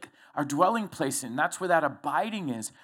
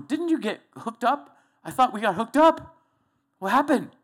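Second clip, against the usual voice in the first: God knocking; 5 semitones higher, 4 dB louder than usual. Pretend. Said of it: "God's knocking at the door going".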